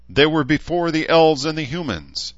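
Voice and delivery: very high, shrill orc shriek. Acted. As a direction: screech it in outrage. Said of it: "the voice shrieked back".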